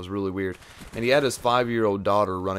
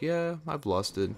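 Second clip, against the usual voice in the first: deadpan slow admission; 7 semitones higher, much slower than usual. Retold or imitated. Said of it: "I'd be like".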